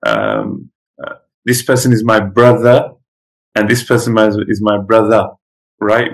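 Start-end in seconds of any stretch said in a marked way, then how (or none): 1.4-2.9 African American accent. Shown as a demonstration. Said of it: "African Americans usually say". 3.7-5.3 African American accent. Shown as a demonstration. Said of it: "With the A at the end".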